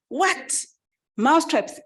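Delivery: high-pitched, disbelieving outburst; mock incredulity. Chicken hears of the mouse traps, mock incredulous. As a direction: exclaim each question in amused disbelief.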